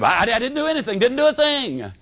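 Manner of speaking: a hint of a nervous kid denying everything; defensive. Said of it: "immediately became defensive".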